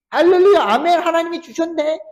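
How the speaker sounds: high, loud fake hallelujah; mock glee. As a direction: ham up a greedy churchgoer's delight. Mock finder of money rejoicing. (돈을 주운 신자가 기뻐하는 과장된 흉내)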